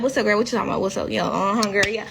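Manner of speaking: relaxed homegirl talk, run together loosely; chill, low-key. Acted. Greeting her homegirls on the show, chill and low-key. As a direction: toss it off casually in her country accent. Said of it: "really chill, low key".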